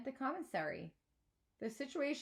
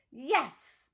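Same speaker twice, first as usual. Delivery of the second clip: cheer; 4 semitones higher, 8 dB louder than usual. A narrator's reading. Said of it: "slaps his hands".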